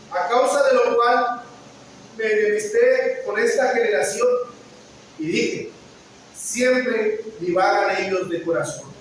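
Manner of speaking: fervent preacher reading scripture. Acted. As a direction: proclaim the verses to the congregation. Reads Hebrews aloud.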